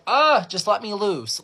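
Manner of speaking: high, loud groan into a plea; exasperated plea. Acted. Second grader holding in episodes, exasperated outburst. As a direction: burst out like a pent-up kid.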